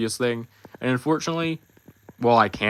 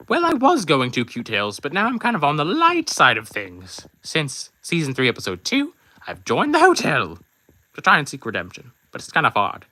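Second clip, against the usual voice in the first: much higher character voice, earnest; reformed villain character; 4 semitones higher, 3 dB louder than usual. Acted. Puppet character telling fans he now seeks redemption, high voice. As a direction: sound sheepishly proud of going good. Character answers fan question.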